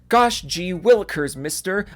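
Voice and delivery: a hint of a gee-whiz kid; sarcastic aw-shucks voice; wholesome 1950s kid. Sarcastic mock innocence.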